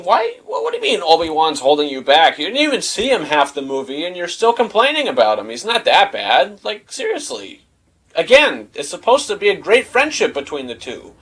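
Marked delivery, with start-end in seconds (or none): 0.0-7.6 incredulous, higher rant; real disbelief at the character; exasperated. Real, not acted. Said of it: "I'm thinking".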